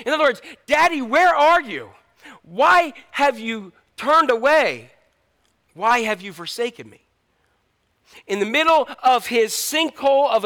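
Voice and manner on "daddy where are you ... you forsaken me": anguished plea. Acted. Jesus pleading with his Father, slow anguish. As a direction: ask like an abandoned child. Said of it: "Jesus cried out to him".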